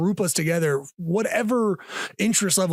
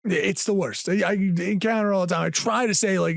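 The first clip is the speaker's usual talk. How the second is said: ordinary talk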